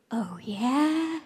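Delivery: hushed, sly challenge; whispered taunt. Retold or imitated. Girl starting trouble at the front of class, whispered taunt. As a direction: whisper it as a dare. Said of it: "and I just heard".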